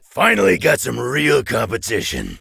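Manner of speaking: high, loud challenge; loud eager challenge; eager shout. Acted. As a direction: relish the fight, out loud. Combat taunt in game.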